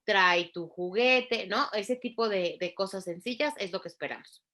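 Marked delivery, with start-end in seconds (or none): 0.0-1.5 lightly acted instructions to a toddler; simple instructions. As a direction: give each little command slowly and distinctly. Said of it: "pueda seguir instrucciones sencillas. Por ejemplo".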